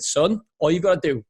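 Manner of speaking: a hint of an American accent; lightly put-on American dad voice; attempted American accent. Father advising his son in the car, half-hearted American accent. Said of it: "that was my American accent".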